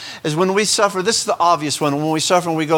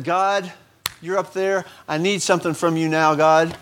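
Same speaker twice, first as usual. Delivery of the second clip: demanding prayer voice. Pretend. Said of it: "Not that".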